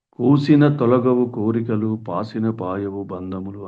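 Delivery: slow, measured poetic recitation; reciting a verse. Acted. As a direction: intone the old verse slowly. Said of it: "అన్నాడు అన్నమాచార్యులు". (నెమ్మదిగా పద్యం చదువుతూ)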